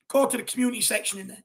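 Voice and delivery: talking through hiccups; speech broken by hiccups. Real, not acted. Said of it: "I'm getting the hiccups now".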